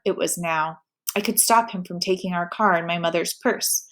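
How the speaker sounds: steady read-aloud storytelling voice; story narration. A narrator's reading. Reader narrating a teen novel, steady storytelling. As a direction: tell the story to your viewers.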